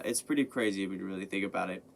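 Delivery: ordinary talk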